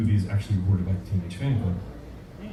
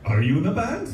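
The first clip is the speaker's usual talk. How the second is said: Scottish gentleman; 8 semitones higher than usual. Retold or imitated. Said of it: "this nice Scottish gentleman".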